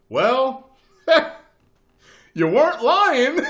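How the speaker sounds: very high, loud, drawn-out quote; high shouted quote through laughter; laughing mock verdict. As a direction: imitate the landlord, cracking up. Landlord quoted after credit check.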